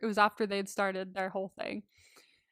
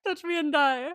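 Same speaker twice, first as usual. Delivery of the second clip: higher and louder through laughter; giggling it out, delighted by the line; laughing repeat; 5 semitones higher, 4 dB louder than usual. Retold or imitated. Repeating Zara's threat for a friend, laughing.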